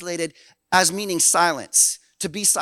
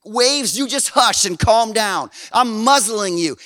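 firm rebuke; 4 dB louder, slower than usual. Pretend. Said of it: "he involuntarily said".

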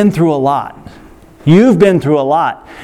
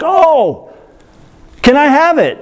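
put-on higher, bright child's voice begging; eager six-year-old; 8 semitones higher, slower than usual. Preacher imitating the six-year-old asking for lip balm: higher, eager. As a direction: ask like a hopeful little kid. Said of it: "He's like".

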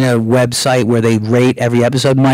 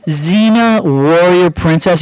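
mock disbelief; 4 semitones higher, much slower than usual. Agent mocking the show's title.

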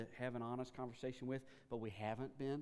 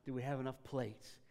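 frantic worry; 2 semitones higher, 8 dB louder than usual. Retold or imitated. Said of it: "Martha is so worried about".

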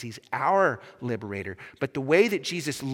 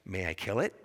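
low, softer angel voice; 7 semitones lower, 5 dB quieter than usual. Acted. Angel asking the ghost's permission, low and grave. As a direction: pose it quietly and gravely, deep in pitch. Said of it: "And the angel says".

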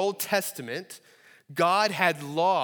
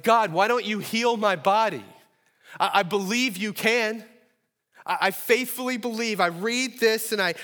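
raised, pleading cry to heaven; louder, higher anguished prayer; pleading yell at God; 7 semitones higher, 7 dB louder than usual. Pretend. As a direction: call out to God, begging. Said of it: "Have you ever yelled at God before?".

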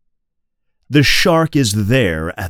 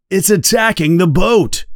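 high, panicked shout; alarmed cry; 8 semitones higher than usual. A narrator's reading. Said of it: "cries Brody".

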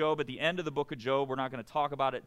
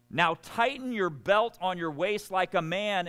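God booms it out, louder and higher; commanding God; 6 semitones higher, 5 dB louder than usual. Acted. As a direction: demand it like a thundering God. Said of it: "He continues on a couple of chapters later".

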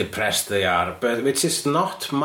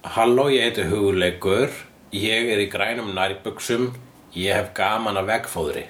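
speaking Icelandic. Shown as a demonstration. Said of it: "Tell me three sentences in Icelandic right now".

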